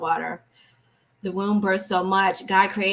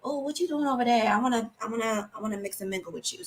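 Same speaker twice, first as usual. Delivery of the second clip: playful future self; 6 dB quieter, much faster than usual. Pretend. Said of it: "we want her to be like".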